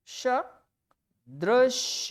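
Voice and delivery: सदृश drawn out extremely slowly; slow spelling-out. Shown as a demonstration. Teacher showing students how सदृश is written, very slow. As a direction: stretch सदृश letter by letter. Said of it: "देखिए सदृश कैसे लिखा जाएगा".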